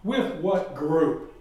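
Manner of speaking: slow, suspicious retold demand; unhappy questioning. Unhappy local questioning the missionary, slow displeased demand. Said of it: "He is not a happy man".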